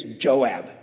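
lightly voiced low name-drop, knowing. Preacher saying the one name that wakes David, low. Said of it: "all you had to say to David is".

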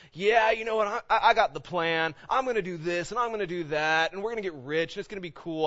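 cocky mock boast, starting loud and high. Preacher voicing a man sure of his plans, boasting. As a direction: brag breezily through your big plans. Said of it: "somebody who's boasting, saying".

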